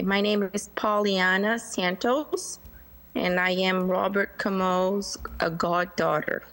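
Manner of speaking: measured self-introduction, spaced out for note-taking. Real, not acted. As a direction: say your name slowly and distinctly. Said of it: "say your name slower so we can write it down".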